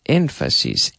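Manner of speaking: Emphasis said low and soft, settling down; low, quiet model take. Shown as a demonstration. Teacher modelling the word for students, low and quiet. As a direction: drop the voice on Emphasis. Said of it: "We say emphasis".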